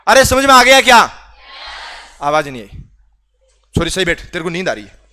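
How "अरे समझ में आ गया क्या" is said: loud check. Real, not acted. Teacher calls out to quiet class.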